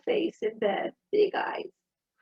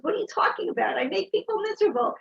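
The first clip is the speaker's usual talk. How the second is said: put-on higher, fast childlike protest; upset child; 8 semitones higher, faster than usual. Son protests to his mom, high and fast. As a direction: blurt it like a frustrated kid.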